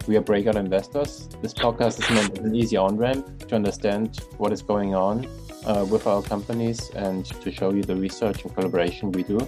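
upbeat host reading the sign-off; podcast outro read. Acted. Podcast outro over music.

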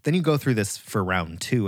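ordinary talk

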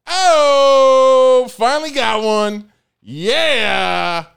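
loud, high victory yell; finally landing a joke, shouting; triumphant shout. Real, not acted. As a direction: crow it out.

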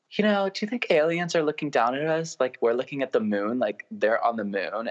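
put-on a light take on a dreamy Valley Girl. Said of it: "I just hear this Valley Girl voice".

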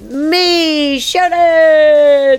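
put-on American accent. Podcast host opening the show in an American accent. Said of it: "my voice went American then".

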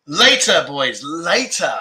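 drawn-out, slow teasing call; mock-coy, lingering put-off; playful teasing. Real, not acted. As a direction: stretch the words out teasingly. Teasing viewers after laughing.

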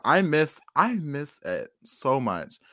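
slow, hammed-up sigh of longing; wistful longing. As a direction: drag each word out wistfully. Longing repeated.

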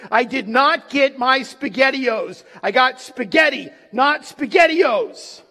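loud, mock-petty protest; indignant complaint. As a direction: imitate a man griping about his meal. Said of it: "took those moments to complain".

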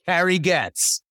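big circus ringmaster intro. Pretend. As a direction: announce her like a ringmaster. Mock circus intro of guest.

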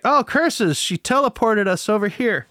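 high-pitched mock villain lament; hammed-up, high-voiced thwarted pursuer; foiled villain. Mocking the foiled pursuers' line.

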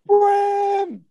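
long, booming high shout; huge hollered greeting; big booming voice. Retold or imitated. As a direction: bellow the name, drawn out and loud. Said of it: "a big booming voice".

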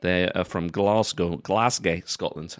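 put-on Glasgow accent, slow and deliberate; Scottish accent. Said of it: "I'm allowed to do that accent".

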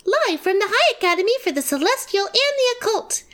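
upbeat radio host intro. Acted. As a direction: welcome listeners like a radio host.

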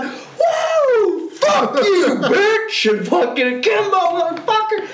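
high, laughing victory yell; triumphant shout. Retold or imitated. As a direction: yell it like you just won. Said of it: "And I'm like".

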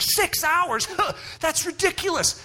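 high, laughing disbelief; a mocking laugh at his mom; scoffing laugh. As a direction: scoff at the idea. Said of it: "I was like".

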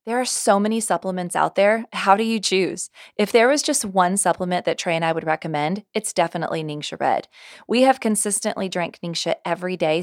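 upbeat sponsor ad read. Acted. Host pitching Ningxia Red to podcast listeners, ad read. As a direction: sell the supplement to listeners.

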